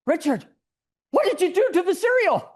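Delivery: rising alarm at her son's mess; alarmed mother. Retold or imitated. Mother confronting Richard about the sawn-up box, shrill alarm. Mother finds cereal pieces.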